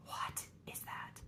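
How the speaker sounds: slow, hushed, stunned whisper. Retold or imitated. Mom staring at the pregnancy test, a slow stunned whisper. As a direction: breathe it out in disbelief. Retold shock at test result.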